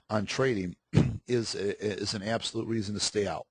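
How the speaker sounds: throat needing a clear; husky catch in the throat; frog in throat. Real, not acted. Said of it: "let me clear my throat".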